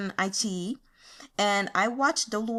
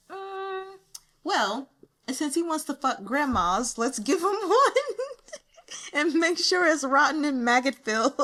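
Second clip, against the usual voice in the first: amused quote; 7 semitones higher than usual. Retold or imitated. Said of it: "he was like".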